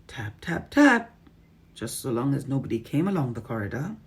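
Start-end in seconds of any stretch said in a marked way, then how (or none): 0.1-1.2 whispering. A narrator's reading. Tapping secretly.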